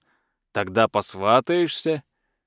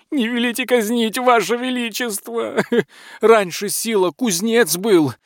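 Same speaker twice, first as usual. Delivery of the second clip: much higher, flustered servant voice; hurried butler; 10 semitones higher than usual. A narrator's reading. Frightened butler hurries to explain to the tsar, high and flustered. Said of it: "торопливо объяснял прохиндей".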